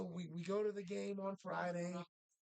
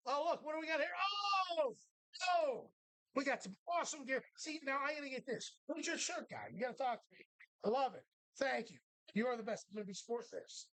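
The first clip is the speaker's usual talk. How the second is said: mock enthusiasm; 4 semitones higher than usual. Mocking coach with fake enthusiasm.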